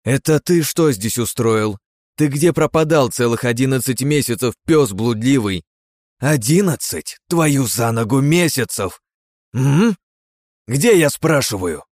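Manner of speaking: slow, loud furious scolding; furious wife. Acted. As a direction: tear into him, slowly. Wife scolds missing husband.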